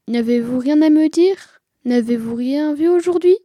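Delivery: lightly voiced father questioning sternly; stern stage father. Stern father questioning his daughter on stage, lightly voiced.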